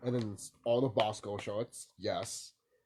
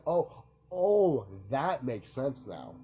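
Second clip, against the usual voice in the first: retold realization; much slower than usual. On learning the orc backstory, re-enacted dawning realization. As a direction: act out it suddenly clicking. Retelling the moment of understanding.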